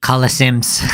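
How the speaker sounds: laughing while echoing the word; mocking laugh on the word; laughing mockery. Real, not acted. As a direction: repeat it through a chuckle.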